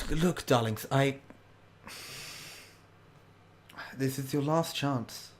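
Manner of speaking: put-on an old friend's last desperate plea; Carol pleading. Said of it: "Carol goes".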